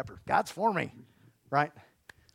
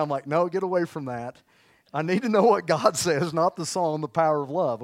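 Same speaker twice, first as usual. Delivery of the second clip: louder, laughing through the words; 2 semitones higher, 5 dB louder than usual. Real, not acted. Pastor joking about searching power of love, laughing. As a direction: tell it while chuckling.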